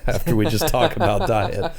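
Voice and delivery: amused, laughing through the words. Real, not acted. Host joking about cake after the diet talk, laughing. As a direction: let a chuckle break up the aside.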